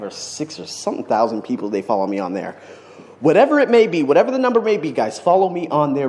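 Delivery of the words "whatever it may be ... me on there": big excited call, much higher and louder; rally the followers at full volume; excited shout. Real, not acted. Vlogger hyping his followers to follow, excited shout.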